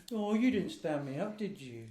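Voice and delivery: a touch of high cooing. Real, not acted. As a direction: tease the dog gently. Cooing to dog.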